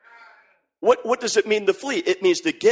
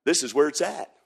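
soft awed murmur; Junior's hushed wow; 4 semitones lower, 6 dB quieter, slower than usual. Pretend. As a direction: breathe it out in wonder. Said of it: "Junior ... says".

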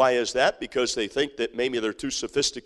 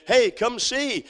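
slow beckoning; 7 semitones higher, slower than usual. Pretend. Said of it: "people will be able to say".

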